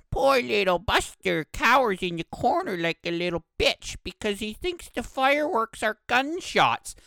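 high-pitched whiny dog-owner imitation; mock whining. Dog owner pleading for poor Buster, high mock whining. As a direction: ham up a pitying, high whine.

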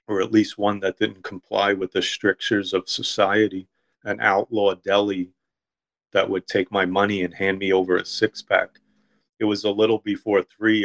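measured, even literary narration; story reading. A narrator's reading. Author reading his deli story to a listener, story reading. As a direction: read your own short story aloud.

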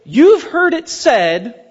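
slow, drawn-out rabbi declaiming; mock-solemn rabbi pronouncement; rabbi's teaching voice. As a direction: lay it out slowly like a teacher of the law. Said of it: "would say".

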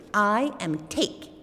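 high, slow squeaky voice; squeaky little man. Acted. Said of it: "said the little man with a squeaky voice".

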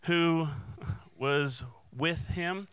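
high-pitched, acted challenge; accusing servant. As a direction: call out a suspect you half recognize. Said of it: "this servant comes up and says".

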